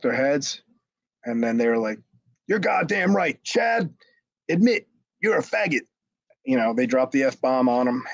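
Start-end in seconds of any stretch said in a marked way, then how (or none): 2.5-5.9 high-pitched mocking group accusation; retold accusation. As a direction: push him to confess, voice pitched well up. Retold jeering confrontation of Chad.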